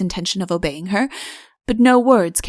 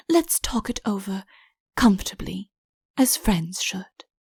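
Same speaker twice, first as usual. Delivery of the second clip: intimate whisper; 6 dB quieter than usual. Acted. Soft intimate coaxing.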